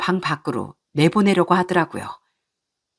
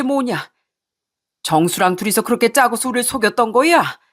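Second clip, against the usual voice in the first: angry father; 4 semitones higher than usual. Acted. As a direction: rage at the deceived family's shame. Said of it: "크게 화를 내기 시작했습니다".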